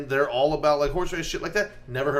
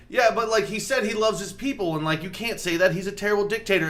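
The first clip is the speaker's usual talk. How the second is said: higher-pitched mock nitpicking pundit; objecting CNN pundit; 6 semitones higher than usual. Podcaster mimics CNN objecting, higher mock protest. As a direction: protest like a worried commentator, pitched up. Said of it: "C N N's like".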